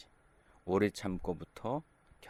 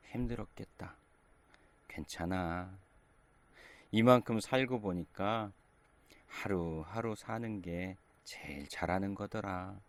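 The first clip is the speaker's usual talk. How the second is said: consoling. Retold or imitated. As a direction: comfort a struggling person gently. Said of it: "이렇게 위로해 주는 것".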